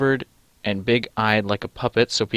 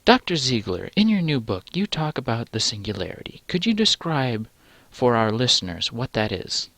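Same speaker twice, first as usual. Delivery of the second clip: lightly voiced interviewer posing a question; podcast interviewer.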